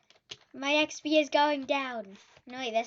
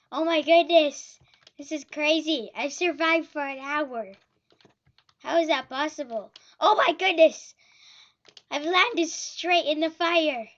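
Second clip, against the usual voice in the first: loud disbelieving exclamations; excited shouting; 6 dB louder than usual. Real, not acted. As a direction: shout with amazed panic. Survival game chaos.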